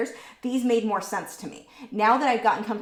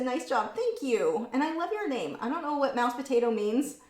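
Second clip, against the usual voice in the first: usual speaking voice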